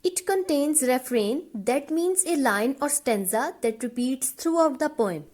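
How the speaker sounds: slow, even dictation pace; teacher dictating notes, word by word; dictation reading. Acted. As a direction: read the definition out slowly so students can write it down. Reads definition slowly for notes.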